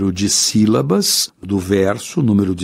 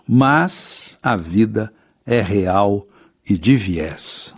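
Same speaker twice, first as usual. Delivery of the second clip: slow poem recitation; much slower than usual. Shown as a demonstration. Teacher recites verse slowly.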